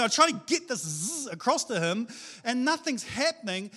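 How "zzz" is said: buzzed zzz, like a current; short electric buzz; buzzing energy noise. Retold or imitated. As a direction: imitate a force zapping across. Imitates sending God's presence across.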